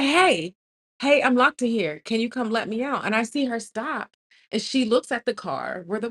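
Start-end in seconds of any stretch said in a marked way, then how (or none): 0.0-3.1 raised, higher re-enacted call. Locked-in woman to a passer-by, re-enacted calling out. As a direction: hail a passer-by, mock shout.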